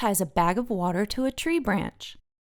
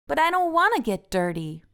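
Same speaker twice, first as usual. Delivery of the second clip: higher whiny protest; Francine whining; 7 semitones higher than usual. A narrator's reading. Francine refusing to get dirty, higher whiny protest. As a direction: protest like a fussy girl. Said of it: "Francine says".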